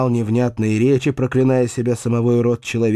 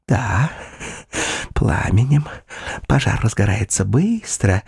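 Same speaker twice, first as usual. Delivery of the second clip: frightening calm. Acted. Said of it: "с устрашающим спокойствием".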